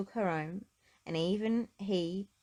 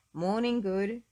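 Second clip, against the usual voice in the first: cheerful; 3 semitones higher, 6 dB louder, slower than usual. Acted. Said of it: "he said cheerfully".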